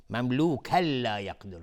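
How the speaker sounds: مملوکاً runs into a doubled l of لا, no hum; merging without ghunnah. Shown as a demonstration. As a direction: drop the n of مملوکاً straight into لا. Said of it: "ادغام بدون غنه".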